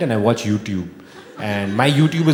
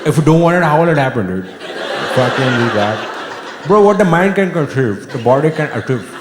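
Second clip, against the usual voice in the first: gym bro. Pretend. Mock gym motivator, louder.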